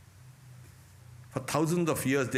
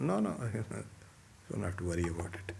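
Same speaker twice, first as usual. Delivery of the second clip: laughing; 7 dB quieter, much faster than usual. Real, not acted. Laughs off his own joke.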